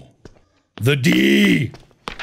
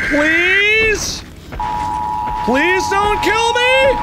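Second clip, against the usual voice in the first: mock pleading; much slower than usual. Begging a monster in game.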